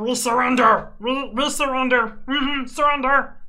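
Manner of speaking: loud, high goblin voice with broken speech. Voicing creatures behind a door who speak broken Common, goblin voice. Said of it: "you were doing the Goblin voices".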